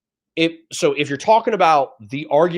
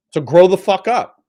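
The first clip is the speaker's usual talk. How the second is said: angry scolding; 5 semitones higher, 6 dB louder than usual. Real, not acted. Ranting at chat, scolding.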